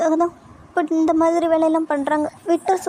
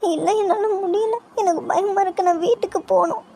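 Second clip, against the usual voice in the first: crying, frightened; 3 semitones higher than usual. Acted. Frightened girl telling her friend she wants to go home, crying. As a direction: wail it weakly, wanting comfort. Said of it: "சரிடி, அழாத".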